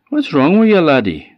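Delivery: a Scots mother calling; mother's voice. A narrator's reading. Mother's voice behind.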